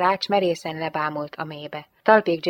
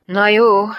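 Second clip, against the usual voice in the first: sighed; 3 semitones higher, 10 dB louder than usual. A narrator's reading. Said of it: "sóhajtotta Gianetto".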